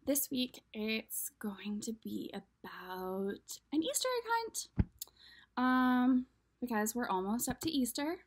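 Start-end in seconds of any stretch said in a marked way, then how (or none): 0.1-4.7 hushed, secretive whisper. Real, not acted. Whispering to the kids about this week's story. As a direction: lean in and whisper it.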